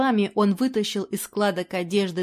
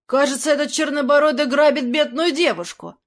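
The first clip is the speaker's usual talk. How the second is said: higher, louder tipsy exclamation; exclaiming reveller; 6 semitones higher, 5 dB louder than usual. Acted. Drunk reveller spotting the robbery, loud exclamation. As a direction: call out the robbery. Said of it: "воскликнул один из гуляк".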